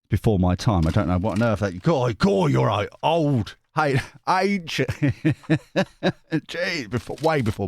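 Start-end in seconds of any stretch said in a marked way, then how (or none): none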